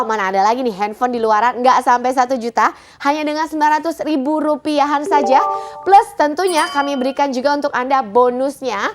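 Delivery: hard-sell TV shopping pitch; infomercial. Acted. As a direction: push the deal, eager and urgent. (gaya iklan jualan yang bersemangat)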